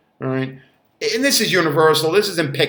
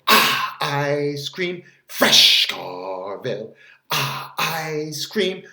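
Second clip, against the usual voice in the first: very slow, drawn-out savouring; dreamy; much slower than usual. Acted. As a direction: linger on it like a craving. Savouring ice cream memory.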